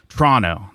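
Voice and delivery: "Toronto" squashed to two syllables, "Tronno"; local Toronto pronunciation. Shown as a demonstration. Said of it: "That's how they say it".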